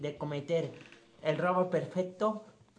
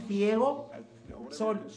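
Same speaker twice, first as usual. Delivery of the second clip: drawn-out reading; slower than usual. Real, not acted. Reading the film plot aloud, slow drawn-out delivery. Overdone halting reading, draws laughs.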